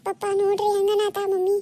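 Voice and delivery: play-acted crying appeal to father; tearful pleading. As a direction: plead tearfully, dragging out the first words. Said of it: "ಅಳ್ಬೇಡ, ಸುಮ್ಮಿರು". (ಅಳುತ್ತಾ ಅಪ್ಪನಿಗೆ ದೂರು)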